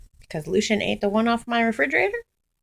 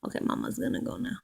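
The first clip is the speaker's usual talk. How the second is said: whispered; 3 semitones higher, 10 dB quieter, much faster than usual. Real, not acted. Quiet aside while leaving.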